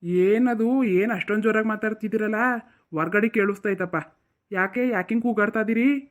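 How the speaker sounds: loud, asking what the fuss is. Acted. Walks in loudly asking why everyone is shouting. Arrives asking about the noise.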